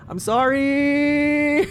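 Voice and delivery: slow, high sorry that breaks into laughter; laughing apology. Real, not acted. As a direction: apologize while cracking up.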